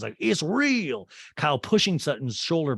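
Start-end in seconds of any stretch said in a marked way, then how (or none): 0.2-1.1 high, loud mock wail; Sutton. Recapper replaying a grabbed castmate's protest, mock wailing. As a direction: imitate a tearful protest. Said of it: "And Sutton's crying".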